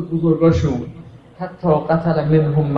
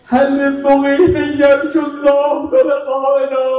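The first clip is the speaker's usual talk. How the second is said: slow, raised call for help; 5 semitones higher, slower than usual. Acted. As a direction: call out slowly to the crowd. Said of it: "و فریاد زد". (ندای کشیده و بلند برای یاری خواستن)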